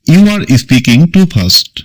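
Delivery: drawn out word by word for learners; slow classroom dictation; very slow model sentence. Shown as a demonstration. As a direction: read it slowly like a dictation. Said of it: "repeat of model, slowed".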